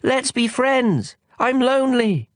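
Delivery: high and slow, longing; high lonely call. Acted. The lonely prince calls to the mountains, high and slow. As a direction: call it out slowly, reaching for a friend.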